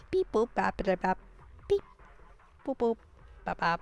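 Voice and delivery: soft beep boop scatting; imitating elevator music. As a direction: hum out quirky elevator music, softly. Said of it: "It's like".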